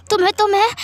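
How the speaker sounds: furious sputter. Acted. Boss sputtering in rage at Wing, furious. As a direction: sputter the word twice in fury. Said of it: "वांग जी को बहुत गुस्सा आ गया".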